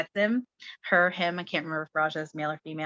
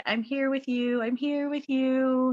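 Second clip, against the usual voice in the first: gentle reassurance; 5 semitones higher, slower than usual. Retold or imitated. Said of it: "very, very gentle".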